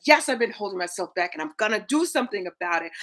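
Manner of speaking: fast, firm committed "Yes"; mean it when you say "Yes". Shown as a demonstration. Coach shows viewers the committed way, firm and fast. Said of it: "It's like".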